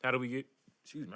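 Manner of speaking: hiccuping mid-question; words broken by a hiccup. Real, not acted. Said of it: "I got the hiccups".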